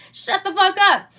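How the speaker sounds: exasperated rant snap. Real, not acted. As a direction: shut them down, fed up. Ranting at commenters.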